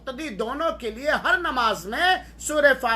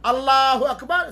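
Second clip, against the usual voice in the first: lightly called-out takbir, rising at the end; a measured demonstration of the prayer call; imam's takbir call; 2 semitones higher, 4 dB louder than usual. Shown as a demonstration. Teacher shows the extra takbir, in a light imam's call. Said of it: "पांच बार तकबीर ज़वायद कहेगा".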